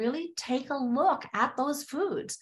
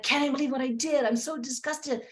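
quick, higher-pitched retold self-disgust; mad at herself; 5 semitones higher than usual. Client telling her therapist about a binge, mad at herself. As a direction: rush it out, upset with yourself. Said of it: "she was so mad at herself".

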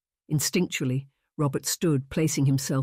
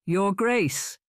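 shocked; 5 semitones higher than usual. A narrator's reading.

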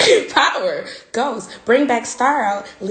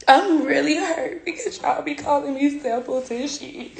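fake crying; 4 semitones higher than usual. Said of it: "try to do this to cry on spot".

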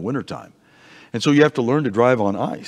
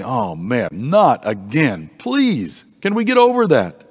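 tired of hearing it, beg them to drop it; exasperated Peter; slower than usual. Pretend. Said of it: "Peter would probably say".

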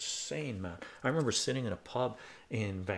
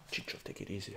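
calming friends; 8 dB quieter, faster than usual. Retold or imitated. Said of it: "My friends were like".

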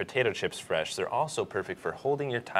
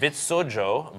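Swedish-sounding furniture name, carefully attempted; attempted Swedish accent; 4 semitones higher, much slower than usual. Real, not acted. Host tackling an odd product name, attempted Swedish accent. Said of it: "Nice accent".

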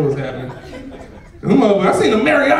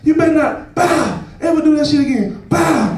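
higher-pitched punctuated parent scolding; acted spanking scolding; 5 semitones higher than usual. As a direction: scold the child between imitated smacks. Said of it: "I'm tearing her ass up".

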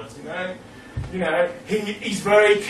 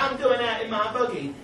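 put-on higher New England hick accent, lightly done; New England hick dialect; 6 semitones higher than usual. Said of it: "this New England hick dialect".

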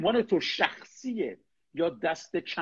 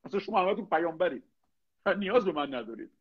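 mock flattery; 3 semitones higher than usual.

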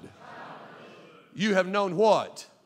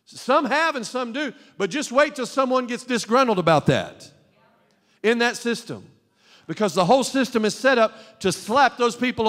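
insistent pulpit argument, pitched up; forceful preaching; 6 semitones higher, 3 dB louder than usual. Real, not acted. Preacher warning parents about the school system, forceful preaching. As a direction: press the point on the congregation.

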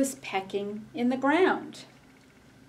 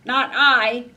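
louder duck quack voice; 4 semitones higher, 9 dB louder than usual. Acted. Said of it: "quacked the duck".

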